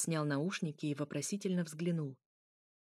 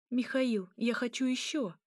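higher-pitched plea for more; whiny demand; 5 semitones higher than usual. Acted. Still hungry princess begging Mikhail, whiny and insistent. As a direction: beg like a spoilt princess.

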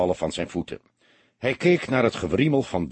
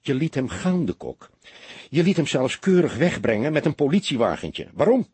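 thunderous; 4 semitones higher than usual. Acted. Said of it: "leek een donderwolk".

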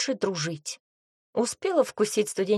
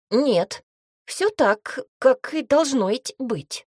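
louder, slow goblin voice, hurried to reassure; hasty reassurance; 4 semitones higher, 6 dB louder, slower than usual. A narrator's reading. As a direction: goblin covering up a slip. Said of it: "поспешно заверил комендант".

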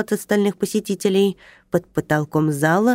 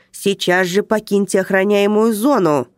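резкий приказ, чуть громче; гаркни как охранник; рявкнул; 3 semitones higher, 3 dB louder than usual. Acted. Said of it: "рявкнул он". (охранник рявкает на нарушителя)

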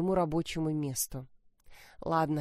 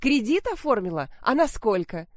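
louder, higher, suddenly delighted; pleased; 4 semitones higher, 5 dB louder than usual. Acted. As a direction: perk up with greedy interest. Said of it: "А мать даже обрадовалась".

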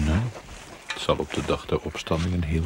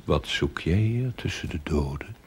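whisper. Acted. Ghostly figure among the dead.

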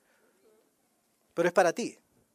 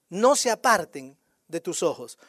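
slow, lower-pitched repeat of the verse; repetición pausada; 5 semitones lower than usual. Real, not acted. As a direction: say it slowly, let it sink in low. Repite el versículo más bajo. (repetición lenta y grave)

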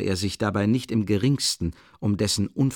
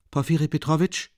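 irritated; 7 semitones higher than usual. A narrator's reading. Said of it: "begann er entschlossen, aber mit ziemlich starker Gereiztheit".

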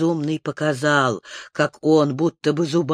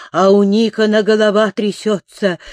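ordinary delivery

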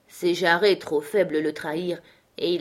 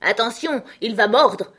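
loud, higher-pitched mocking warning; called out; 6 semitones higher, 7 dB louder than usual. A narrator's reading. Someone in the crowd jeering at Beauty Smith, calling out. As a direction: call it out from the crowd. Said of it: "jeta quelqu'un dans la foule".

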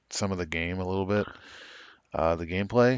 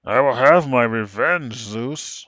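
seething shrieking spirit; 4 semitones higher, 9 dB louder, slower than usual. Acted. Voicing Kratos's rage.

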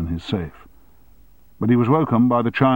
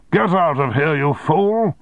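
higher, louder angry order; shouting; 8 semitones higher, 4 dB louder than usual. Acted. Boss ordering the guard out, shouting. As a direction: bark him out of the room. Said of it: "he shouted".

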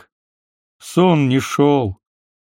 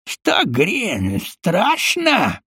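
smirking taunt; 6 semitones higher, much slower than usual. A narrator's reading. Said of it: "ухмыльнулся он".

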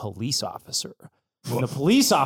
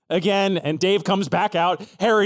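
ordinary talk

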